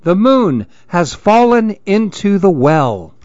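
high, panicky cries for help; frightened shout. Acted.

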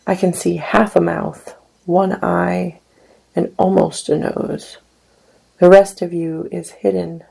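measured, unhurried poetry recital; poem reading. Acted. Poet reading his poem to an audience, measured recital. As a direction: read each image as a poem, letting lines land.

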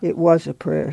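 hushed but certain; gentle insistence. A narrator's reading. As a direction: insist quietly from the sickbed. Sick woman gently insists.

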